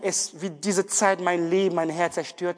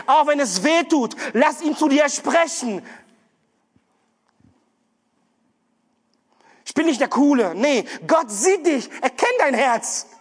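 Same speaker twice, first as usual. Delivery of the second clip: louder, higher, urgent sermon appeal; impassioned preaching; 6 semitones higher, 4 dB louder than usual. Acted. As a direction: plead with the congregation at full force. Preaching with rising intensity. (leidenschaftliche, eindringliche Predigt)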